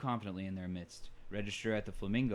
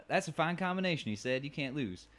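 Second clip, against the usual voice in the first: put-on higher re-take of "That's a fine combination" in a bartender accent; redone bartender accent; 6 semitones higher than usual. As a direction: hear it again, a bit higher and more put on. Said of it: "I just went with the one I felt".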